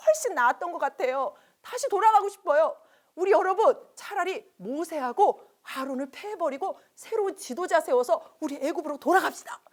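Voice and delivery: hammed-up wailing lament, then angry complaint; mock wailing. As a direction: wail then rage at the leaders. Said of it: "통곡을 했어요".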